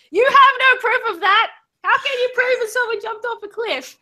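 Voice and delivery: high-pitched yelled objection; indignant high holler across a room; shouted retort. Acted. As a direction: yell back, demanding proof.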